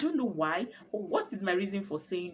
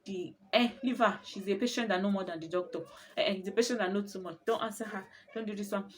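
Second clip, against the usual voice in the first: dismissive nurse; 2 semitones higher than usual. Retold or imitated. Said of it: "the nurse would just be like".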